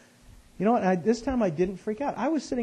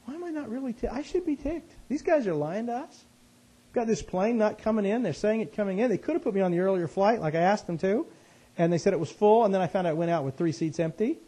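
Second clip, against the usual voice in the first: puzzled inner talk; 5 semitones higher, 4 dB louder than usual. Retold or imitated. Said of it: "I'm sitting there going".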